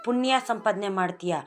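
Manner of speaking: forceful preaching. Acted. Preacher speaking as the saint to sinners, loud and stern. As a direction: thunder out sin and merit.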